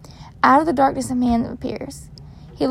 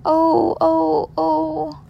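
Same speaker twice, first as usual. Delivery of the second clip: woman moaning; 4 semitones higher, much slower than usual. Acted. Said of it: "a woman moans".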